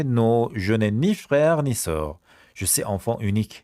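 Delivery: je n'ai ni frère ni sœur said very slowly; very slow model. Shown as a demonstration. Teacher to class, very slow model. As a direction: stretch every word for the class. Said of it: "slow model sentence".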